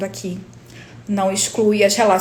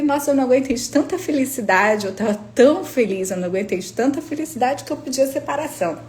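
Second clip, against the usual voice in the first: mock-delighted sarcastic joke; ironic; 4 semitones higher, faster than usual. Answering a nosy acquaintance, sarcastic mock delight. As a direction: overplay the happiness to mock her. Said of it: "Eu fui irônica".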